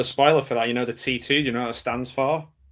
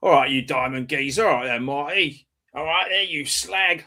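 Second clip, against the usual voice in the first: mock Cockney; 2 semitones higher than usual. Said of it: "me with Cockney stuff".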